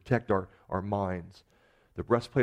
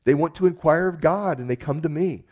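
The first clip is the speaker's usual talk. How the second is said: higher-pitched protesting reply; acted-out justification in a raised pitch; Moses explaining himself; 8 semitones higher, 5 dB louder than usual. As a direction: voice a defensive answer, pitched up. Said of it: "And Moses just says".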